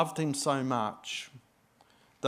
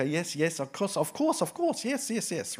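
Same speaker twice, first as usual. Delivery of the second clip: absent-minded agreeing; 2 semitones higher than usual. Retold or imitated. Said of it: "and I go".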